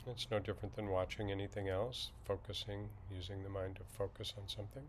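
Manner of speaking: slightly hushed, even meditation guide; calm, unhurried instruction with long silences; guided meditation. Acted. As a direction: ease listeners into settling, with long pauses.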